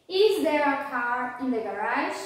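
"Is there a car in the garage?" lifting at the end; question intonation. Shown as a demonstration. Teacher drills "Is there a car in the garage?" with students, question intonation. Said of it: "falar como se realmente eu estivesse perguntando".

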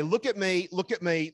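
exasperated demand; frustrated parent. Retold or imitated. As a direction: parent demanding a tuned-out child's attention. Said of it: "And you're gonna say".

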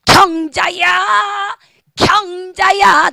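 mock angry call of 경자야, slow and hard; like a debt collector. Shown as a demonstration. Teacher showing the wrong way to call: like a debt collector. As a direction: bark the name like chasing a debtor. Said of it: "빗쟁이를 부르듯이".

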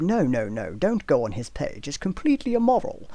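mock outrage, pitch jumping high; sarcastic. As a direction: ham up fake moral panic. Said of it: "sorry for being sarcastic".

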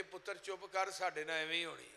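hushed, soft voice of a resigned mother; soft consoling. Acted. Mother buffalo telling her calf to be quiet, soft consoling. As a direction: drop the volume and soothe gently.

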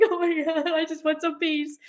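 high-pitched retold plea; mock exasperation. Wife wanting peace as husband yells, mock exasperation.

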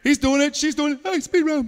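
put-on teacher catching kids who moved too soon; excited call-out. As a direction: point them out with glee. Teacher catches kids moving early.

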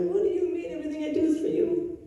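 high, fast defensive reply; protest, hurt and quick. Retold or imitated. Answering God's rebuke, a high defensive protest.

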